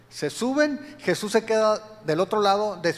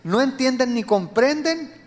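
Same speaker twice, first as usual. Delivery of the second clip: louder, higher stern questioning; rebuking Jesus; 5 semitones higher, 5 dB louder than usual. Retold or imitated. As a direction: press the disciples hard. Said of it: "Jesús hace una serie de preguntas".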